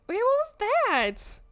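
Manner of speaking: high, loud and slow alarm; startled. Acted. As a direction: jump at the sound. Thunderous knock in the mine.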